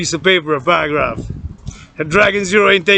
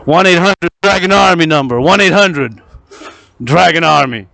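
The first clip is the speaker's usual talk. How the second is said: ad announcer; 4 dB louder than usual. Acted. Announces hotline like an ad.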